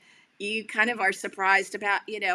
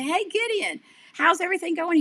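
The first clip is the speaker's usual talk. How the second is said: much higher, sing-song cheerful hello; cheery greeting; 10 semitones higher, 5 dB louder than usual. Retold or imitated. Host knocking to check on Gideon, cheery and much higher. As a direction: greet him brightly at the door. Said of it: "and I say".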